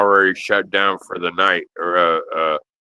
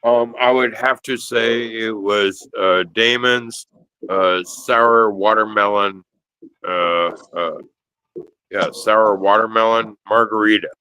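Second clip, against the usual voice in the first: halting, tipsy rambling. Real, not acted. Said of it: "I'm so hammered right now".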